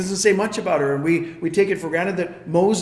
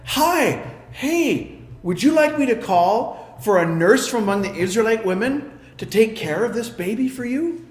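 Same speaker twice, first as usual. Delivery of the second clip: put-on bright high chirpy girl offering help; eager young girl; 4 semitones higher than usual. A young sister eagerly offers Pharaoh's daughter a nurse, chirpy and high. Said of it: "she was like".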